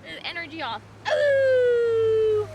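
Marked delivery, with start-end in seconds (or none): 1.1-2.5 high, loud delighted ooh; excited coo. Real, not acted. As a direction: squeal with delight at the dog. Owner cooing at dog.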